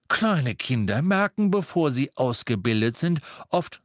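father explaining magic under pressure; earnest father. Acted. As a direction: reassure him firmly. Mr Weasley explains insistently.

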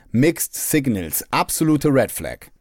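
slow, drawn-out influencer verdict; Instagram influencer voice. Retold or imitated. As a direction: spell it out like a relationship coach online. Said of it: "Beziehungsinfluencer auf Instagram würden sagen".

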